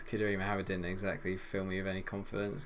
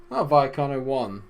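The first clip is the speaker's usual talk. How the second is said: surprised; 5 semitones higher, 9 dB louder than usual. Real, not acted. Sudden good news.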